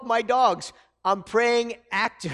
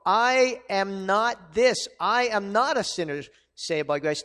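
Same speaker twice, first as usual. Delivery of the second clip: defiant denial; 5 dB louder than usual. Retold or imitated. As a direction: refuse the label with a firm push. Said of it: "that mindset where we go".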